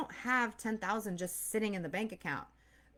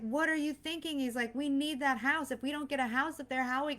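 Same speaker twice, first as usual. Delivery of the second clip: imitating husband's worry; 5 semitones higher than usual.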